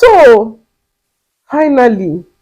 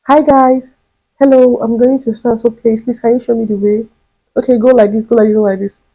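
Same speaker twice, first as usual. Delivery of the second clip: asking directions; 5 semitones higher, 3 dB louder than usual. Retold or imitated.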